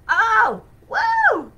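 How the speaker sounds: high, loud joyful woo; thrilled cry at the power she feels; excited whoop. Real, not acted. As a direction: let out a big excited whoop. Exclaims at the power.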